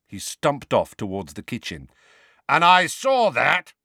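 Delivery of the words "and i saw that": louder, higher irritated snap; irritable. Acted. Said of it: "he added irritably".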